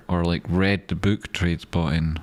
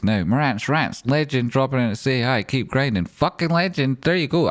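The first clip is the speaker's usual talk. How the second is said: excited hype; 6 semitones higher than usual. Real, not acted. Hyping a viewer's arrival.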